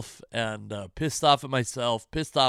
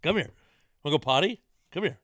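coaxing the dog; 3 semitones higher, faster than usual. Real, not acted.

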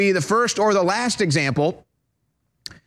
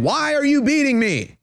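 mock victim's protest; 5 semitones higher than usual. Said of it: "and saying".

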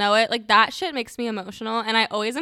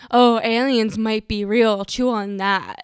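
mocking; 6 dB louder, slower than usual. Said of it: "the countless".

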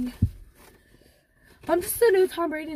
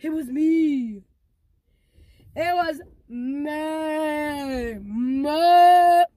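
dramatic confession; 4 dB louder, much slower than usual. Acted. Melodramatic confession.

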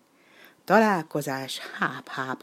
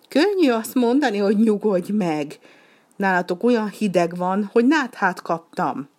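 high, louder complaining duck; whiny duck retort; 5 semitones higher, 5 dB louder than usual. Acted. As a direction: throw nyugodj meg back at him, much higher and louder.

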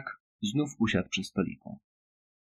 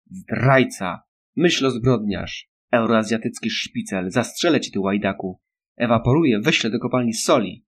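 loud, accusing yells; children yelling; 5 dB louder than usual. Acted. Kids accusing Winston, loud shrill shouting. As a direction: hurl each insult loudly. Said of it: "wrzeszczały dzieciaki".

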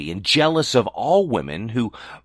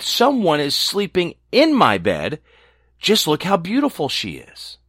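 a touch higher, eager little dwarf; shrill excited dwarf; 4 semitones higher than usual. Acted. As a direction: squeak it out in excitement. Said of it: "called out in a shrill, for he was so excited".

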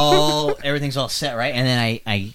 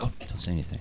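much softer, lower wise-mentor voice; Miyagi voice; 8 semitones lower, 13 dB quieter, faster than usual. Retold or imitated. Host imitating the friend as Miyagi, soft mentor voice. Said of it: "hear it in my head".

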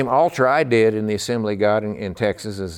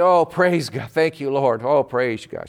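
gushing praise; 4 semitones higher, slower than usual. Retold or imitated. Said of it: "everything she said".

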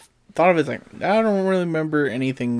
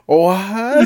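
stunned what; 8 semitones higher, 9 dB louder than usual. Retold or imitated. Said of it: "I'm like".

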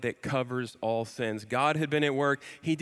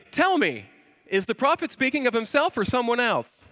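eunuch as Ace Ventura; 8 semitones higher than usual. Retold or imitated. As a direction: ham up the eunuch's question like a comic. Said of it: "one of the things I think of".

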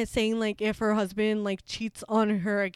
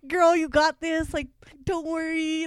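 slow, higher-pitched pep talk to oneself; drawn-out mock reassurance; imitated self-soothing; 4 semitones higher, 3 dB louder, slower than usual. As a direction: talk yourself down slowly. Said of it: "calm myself down".

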